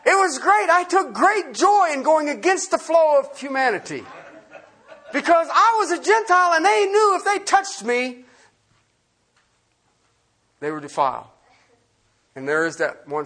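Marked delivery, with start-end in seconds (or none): 0.1-8.3 laughing. Retold or imitated. Gleefully recalls parting the crowd.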